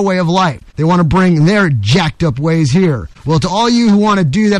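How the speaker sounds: emphatic, deliberate oratory; rally the listeners with a stump-speech cadence; radio editorial. Acted. Host warning listeners the country is in danger, rousing editorial. Continues his opinion piece.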